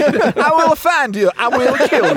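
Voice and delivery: hammed-up action-hero threat; Liam Neeson voice. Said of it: "you can't change his accent now".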